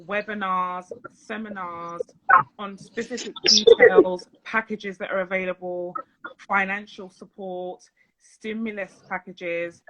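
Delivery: slow, measured delivery with gaps between items; slow down so listeners can follow. Real, not acted. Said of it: "I'll speak a little bit slower".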